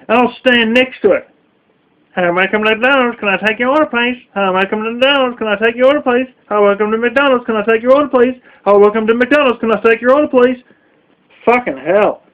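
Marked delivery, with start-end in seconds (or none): 2.1-10.6 fast, rote repeated greeting; mock McDonald's drive-thru speaker; drive-thru recording. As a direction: rattle it off like a machine on loop. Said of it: "you're like a fucking answering machine".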